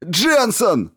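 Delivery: high, loud shout of her name; furious yell. A narrator's reading. Stevens yells at Jensen from the table. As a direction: yell for her in pain and rage. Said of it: "заорал Стивенс".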